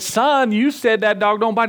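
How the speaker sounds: put-on a bitten man accusing the boy; hurt complaint.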